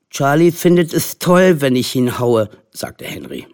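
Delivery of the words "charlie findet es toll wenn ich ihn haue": put-on insistent little boy. A narrator's reading. Henry persuading the mothers, insistent. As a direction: argue earnestly like a small boy.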